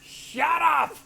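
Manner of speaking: sudden loud shout. Pretend. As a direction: yell it out suddenly. Mock yelling as the bird.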